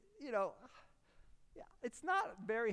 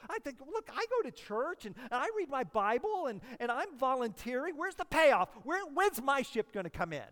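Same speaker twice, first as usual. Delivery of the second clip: mock frustration; 4 semitones higher, 4 dB louder than usual. Voicing the frustrated churchgoer.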